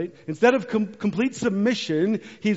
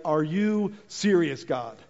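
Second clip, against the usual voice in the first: mock exasperated rant. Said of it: "I can imagine him being like".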